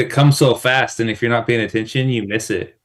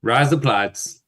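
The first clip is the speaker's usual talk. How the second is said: put-on slow Kiwi accent slipping into German; German-sounding Kiwi attempt; slower than usual. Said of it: "That was German".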